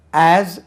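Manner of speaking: ஆஸ் ending in a buzzing z; z sound. Shown as a demonstration. Teacher shows students the z sound in ஆஸ். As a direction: stretch the z at the end of ஆஸ். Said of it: "ஜெட் உச்சரிப்பு".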